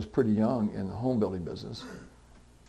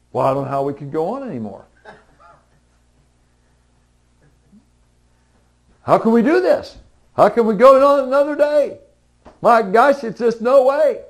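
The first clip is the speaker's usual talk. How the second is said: very high, loud, hammed-up wail; mock despair; 12 semitones higher, 11 dB louder than usual. Mock lament of someone who can't go on without it, high and wailing. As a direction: whine it out as if all is lost. Voicing despair over money.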